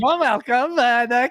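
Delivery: high hammed-up French accent imitation. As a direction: mimic her thick French accent. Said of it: "She sounds like Borat".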